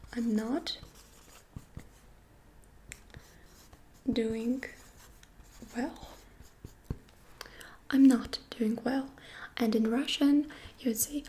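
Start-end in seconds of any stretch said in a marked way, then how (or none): 0.1-6.1 each word set apart with pauses; slow word by word. Shown as a demonstration. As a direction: say it slowly, one word at a time. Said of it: "for example".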